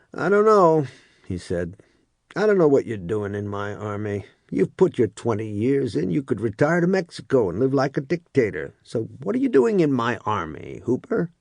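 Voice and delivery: lightly voiced sergeant, rising on the name; a mildly probing sergeant pressing Hooper; first sergeant.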